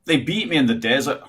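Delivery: rolling Scottish accent; broad Scottish delivery. Shown as a demonstration. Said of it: "A Scottish accent would be".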